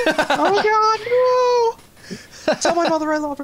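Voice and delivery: high strained dying soldier cry; wounded soldier gasping. Pretend. Voicing guard thrown off ledge.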